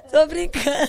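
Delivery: high, loud laugh into an apology. Real, not acted. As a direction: laugh it off, just kidding. After joking about the dog.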